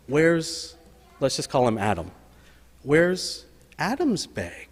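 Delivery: slow, lightly voiced little-boy question; child's question. Boy asks his teacher where Adam's bag is, slow and innocent. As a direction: ask it slowly like a small boy.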